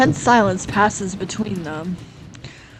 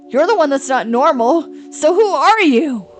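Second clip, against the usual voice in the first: heated retort; 5 semitones higher, 3 dB louder than usual. Acted.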